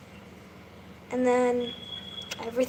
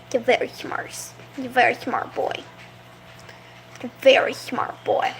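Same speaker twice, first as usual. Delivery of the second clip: soft pet praise; 2 semitones lower, 5 dB quieter than usual. Real, not acted. Praising frog softly.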